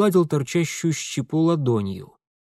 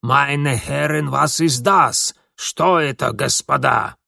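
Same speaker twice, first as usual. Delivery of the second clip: put-on slow, frightened German accent; a scared German servant asking; 3 dB louder, slower than usual. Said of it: "испуганный Герлемке".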